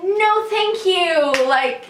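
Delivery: slow, firm no thank you set high; NO drawn out, closing the subject; firm refusal. Retold or imitated. Turning down a stranger's kiss, slow and firm. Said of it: "And I was like".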